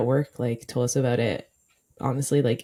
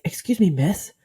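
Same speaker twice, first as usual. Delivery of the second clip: mildly raised voice, hailing someone; mock yell; 5 semitones higher, 5 dB louder than usual. Passenger yelling at flight attendant, mild mock yell. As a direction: imitate a passenger calling out, a bit louder. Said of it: "like, yells at me".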